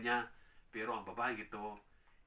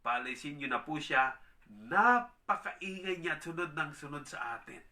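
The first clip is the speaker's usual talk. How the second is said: annoyed disciples; 5 dB louder than usual. Acted. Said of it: "sinabi kay Jesus".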